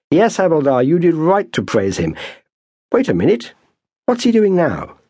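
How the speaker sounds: fussy subaltern peering through binoculars; a hint of a plummy British officer. A narrator's reading. British officer Slay speaks.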